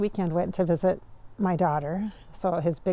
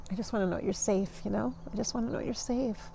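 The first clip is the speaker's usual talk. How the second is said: gentle motherly plea; 2 semitones higher, 6 dB quieter than usual. Retold or imitated.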